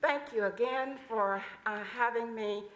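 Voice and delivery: muffled, speaking through a mask; words dulled by a face mask. Real, not acted. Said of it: "It's hard to speak through this mask".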